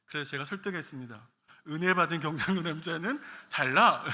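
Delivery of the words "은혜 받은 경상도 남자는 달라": loud, confident Gyeongsang man boast. Retold or imitated. Preacher courting his wife, boasting as a loud Gyeongsang man. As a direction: persuade the girlfriend with a loud Gyeongsang man swagger. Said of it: "경상도 남자라고 싫어했거든요".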